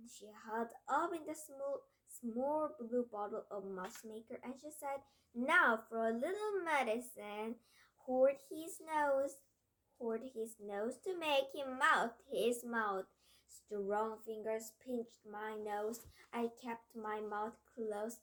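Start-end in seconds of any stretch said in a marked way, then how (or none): 5.3-13.1 gloating witch. Acted. Witch with the potion.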